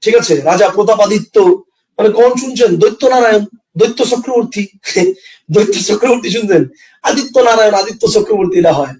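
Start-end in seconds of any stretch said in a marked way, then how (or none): 4.8-6.6 chuckling through the name; amused laugh breaking into the question. Real, not acted. Teacher laughing at the silly name, chuckling as he asks.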